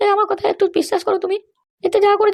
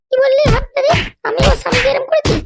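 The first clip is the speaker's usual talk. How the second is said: angry scolding; 4 semitones higher than usual. Acted. Mother-in-law rages at daughter-in-law.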